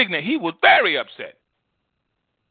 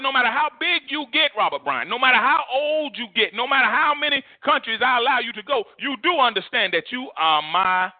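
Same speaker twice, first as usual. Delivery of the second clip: lightly voiced God, raised and insistent; 6 semitones higher than usual. Preacher voicing God to his congregation, raised and earnest. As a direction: speak as God pleading with his children.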